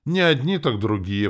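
high, loud scornful snort; snorting, derisive reply; snorting retort. Acted. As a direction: toss back a dismissive comeback. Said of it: "фыркнула она".

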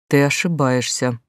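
твёрдо и медленно; спокойная уверенность, медленно. Acted. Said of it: "твёрдо сказала Глаша". (твёрдо, не спеша)

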